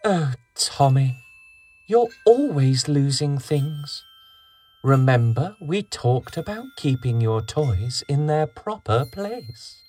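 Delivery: lightly voiced weary mum; a hint of a tired mother; sighing mother. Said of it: "His mother sighed and said".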